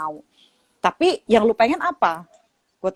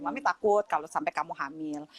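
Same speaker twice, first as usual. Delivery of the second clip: soft confession; 4 semitones lower, 9 dB quieter than usual. Retold or imitated. Mother tells daughter her fear.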